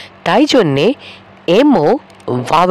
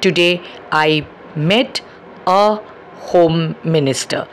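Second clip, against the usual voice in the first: slow, easy a home minister; slow model sentence; 3 dB quieter, much slower than usual. Shown as a demonstration. Teacher modelling the long form with a. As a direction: draw out each word gently. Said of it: "তাহলে খুব সহজেই বলবো".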